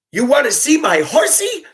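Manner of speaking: high-pitched incredulous mimicry of a child; mocking kid voice. Bus driver to kid after sliding on ice, mocking high voice. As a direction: throw the kid's question back in a squeaky voice. Driver mocks the kid's question.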